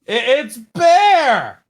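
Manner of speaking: slow, high character voice; Bear voice. Retold or imitated. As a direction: announce it like a kids' TV bear. Announcing Bear puppet guest.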